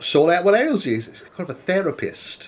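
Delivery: put-on New Zealand accent, high and sing-song. Voicing a character who suggests a psychologist cousin: new zealand accent. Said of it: "my New Zealand accent".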